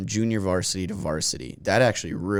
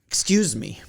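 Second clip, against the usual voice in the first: hammed-up exasperation, higher and louder; mock frustrated plea; 4 semitones higher, 7 dB louder, faster than usual. Brother losing patience with the cashier, mock frustrated. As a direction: play the fed-up customer begging for a bag. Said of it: "he was getting so frustrated".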